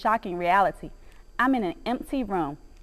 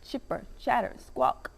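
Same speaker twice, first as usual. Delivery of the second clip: squirrel screech; 8 dB quieter than usual. A narrator's reading. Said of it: "he screeches again".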